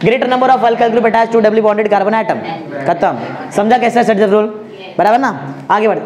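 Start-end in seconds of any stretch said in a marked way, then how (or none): 0.0-2.4 fast. Shown as a demonstration. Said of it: "fast एकदम".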